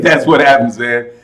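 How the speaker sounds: amused verdict. Real, not acted. Chuckles at own verdict.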